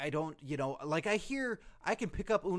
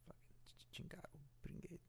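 hushed, whispered Spanish obscenities; whispered cursing; 2 semitones higher, 23 dB quieter than usual. Acted. Masked wrestler answering a tattoo question, whispered cursing. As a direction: curse in a barely audible whisper.

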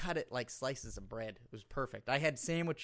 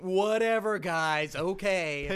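hammed-up British accent, higher and much louder; bad British accent; 5 semitones higher, 8 dB louder, much slower than usual. Shown as a demonstration. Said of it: "That's my British accent".

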